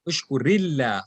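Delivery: "Ushkurillah" joined by ri into a light illah; one linked word, "Ushkurillah", with flat final lah; linked form. Shown as a demonstration. Teacher repeats for students, "Ushkurillah" linked with ri. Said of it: "you will say ushkurillah".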